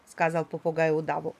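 plain reading voice

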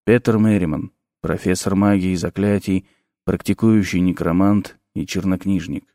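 low, soft, dark necromancer voice; sinister professor. A narrator's reading. Necromancer introducing himself to the nervous teacher, low and soft. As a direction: speak low and soft with quiet menace.

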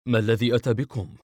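a touch of astonishment; surprised. A narrator's reading. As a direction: ask with mild, puzzled surprise. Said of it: "وبنبرة متعجبة".

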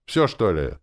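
a touch of hurt pique in the question; sulky, put-out asking; mildly aggrieved demand; offended. A narrator's reading. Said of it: "спросила обиженно".

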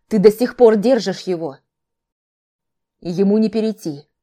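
loud, sharp rebuke; cutting her off. A narrator's reading. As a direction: cut in hard and loud. Brother cuts her off.

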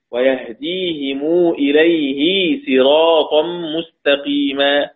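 slow, measured tartil recitation; Quran recitation. Shown as a demonstration. Teacher recites the verses in Qunbul's reading for the sisters, slow measured recitation. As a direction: recite each verse slowly and evenly. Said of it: "على أي صورة في جميع القرآن بالسين".

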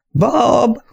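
high call across the house; calling the dog. Acted. Mistress calling for her terrier, a high call.

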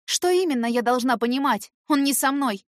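indignant protest; heated denial. A narrator's reading. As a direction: push back against her. Heroine denying the accusation.

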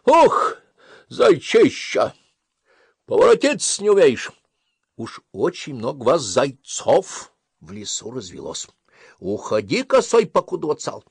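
loud, high sneering fox voice; mocking fox. Fox drives the hare from his own hut, loud and sneering. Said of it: "а лиса ему".

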